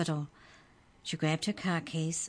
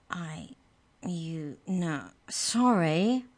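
mumbled; much slower than usual. Acted. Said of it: "Trent mumbled".

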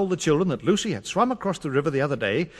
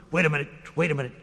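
very fast mouse voice; hurried mouse; 3 semitones lower, much faster than usual. Acted. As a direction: rush it out breathlessly. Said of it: "said Dingle Mouse".

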